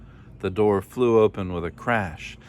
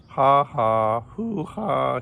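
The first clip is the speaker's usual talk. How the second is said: high, hearty spoken laugh; 5 semitones higher, 4 dB louder, much slower than usual. A narrator's reading. Kangaroo laughs till tears run, high hooting laugh. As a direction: read out a hooting mock laugh. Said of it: "he laughed".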